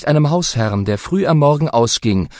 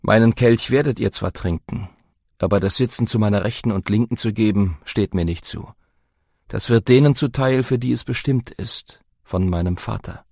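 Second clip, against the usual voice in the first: lower, quiet grave Jesus; Jesus speaking; 4 semitones lower, 3 dB quieter than usual. Acted. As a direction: settle it softly.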